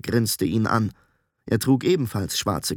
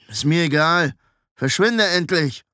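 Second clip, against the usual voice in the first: higher, hostile brush-off; rude, impatient dismissal; angry dismissal; 5 semitones higher, 3 dB louder than usual. A narrator's reading. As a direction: send him packing, irritated. Hostile apprentice sends newcomer away.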